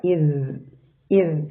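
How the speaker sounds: "ഇസ്" with its final consonant sustained; lingering dhal. Shown as a demonstration. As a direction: linger on the last sound of "ഇസ്". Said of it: "മഹ്റജിൽ time spend ചെയ്യുന്ന".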